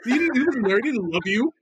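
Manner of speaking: hammed-up boozy insistence; drunk Rachel. Wife telling child Santa never loved her, mock drunk. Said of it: "drunk. She has, like, a glass of wine".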